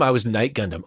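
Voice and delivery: ordinary delivery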